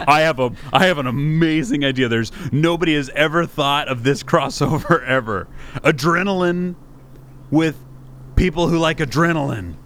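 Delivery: hammed-up eager pitchman voice; mock an overexcited idea pitch; mocking excited pitch. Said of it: "the way that you said that just was like".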